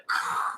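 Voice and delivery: short breathy whoosh of falling water; imitated rushing water. Shown as a demonstration. Showing water falling on the head, breathy whoosh. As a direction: blow out a rush of air like a waterfall. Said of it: "I felt like that".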